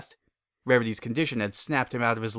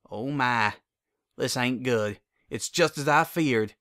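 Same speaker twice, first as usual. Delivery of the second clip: concerned. Acted. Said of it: "she said with concern".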